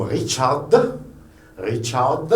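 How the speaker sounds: "Richard" with a sounded final consonant; German pronunciation. Shown as a demonstration. Teacher modelling the name for R, German pronunciation. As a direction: say "Richard" the German way, last letter released. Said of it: "En français, on dirait".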